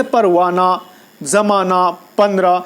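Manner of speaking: low-pitched "پروانہ، زمانہ، پندرہ" ending on open aa; silent final he. Shown as a demonstration. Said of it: "لیکن اس کا تلفظ نہیں کیا جائے".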